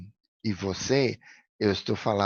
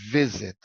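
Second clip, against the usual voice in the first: "visit" with stress falling on VI; stress on first syllable. Shown as a demonstration. Teacher pointing out the tonic syllable, "visit" stressed on VI. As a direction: lean on the VI of "visit". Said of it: "o sílaba tônica é no vi".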